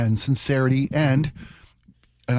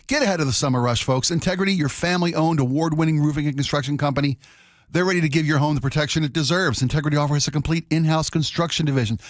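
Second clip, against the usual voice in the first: ad read. Acted. Live ad read.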